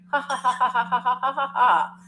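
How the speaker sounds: acted crowd laugh; mock audience laughter. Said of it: "And the audience starts laughing".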